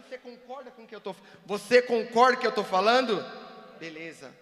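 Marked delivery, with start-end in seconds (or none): 1.4-3.2 sudden loud demand for agreement; pressuring loud. Shown as a demonstration. Speaker pressing a volunteer to agree, loud and insistent. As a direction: lean on him with a much louder voice. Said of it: "Mas você não tá pressionado".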